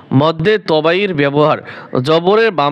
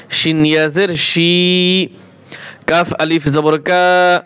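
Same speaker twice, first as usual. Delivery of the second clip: slow drawn spelling; slower than usual. Shown as a demonstration. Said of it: "এক আলিফ করে টান দিবেন".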